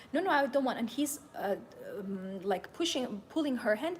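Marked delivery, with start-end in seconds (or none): 0.1-0.8 louder, higher no-no; firm refusal. Retold or imitated. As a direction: shove the pushy seller off with words. Girl refusing pushy seller.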